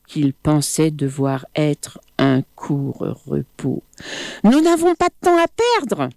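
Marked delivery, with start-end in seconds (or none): 4.4-6.1 crocodile voice. Acted. Crocodile calls up to monkey.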